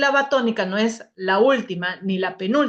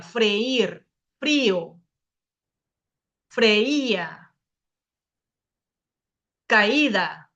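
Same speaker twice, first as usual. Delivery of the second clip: drawn-out stress on the í or ú in "Guía", "grúa", "búho"; stressed hiatus vowel; much slower than usual. Shown as a demonstration. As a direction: say "caída" and "freír" as separate vowels, leaning on the í. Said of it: "es necesario fortalecer la vocal débil".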